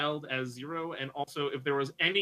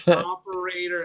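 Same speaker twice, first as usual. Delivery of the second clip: insistent louder operator; louder repeat; 3 semitones higher, 8 dB louder, slower than usual. Retold or imitated. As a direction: push the word harder. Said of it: "they just went".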